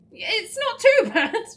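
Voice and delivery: loud, high, drawn-out guess; triumphant blurt. Real, not acted. Player working out an Italian phrase, loud triumphant guess. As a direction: call it out high and slow with a laugh in it.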